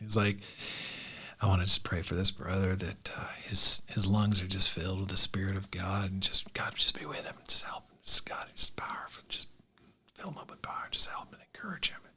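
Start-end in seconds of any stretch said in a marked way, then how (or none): 1.4-12.0 hushed, low, sub-vocal whispered murmur. Retelling a stranger praying over the speaker from behind: imitating a low-voiced prayer. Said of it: "in a real low voice".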